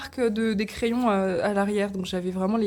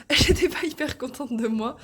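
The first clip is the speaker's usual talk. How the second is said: laughing through hiccups, higher; hiccuping, laughing it off; 4 semitones higher than usual. Real, not acted. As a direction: repeat with a laugh after a hiccup. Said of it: "pardon, j'ai le hoquet".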